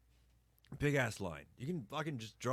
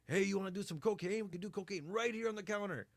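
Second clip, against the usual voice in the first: higher, sly hawker voice pitching cocaine; pushy street vendor; 7 semitones higher, faster than usual. Retold or imitated. Shop vendor offering cocaine to tourists, sly hawker voice. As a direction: lean in like a shady shop guy selling drugs.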